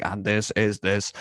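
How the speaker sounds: a hint of a monotone lecturer. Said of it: "talks in a very monotone voice".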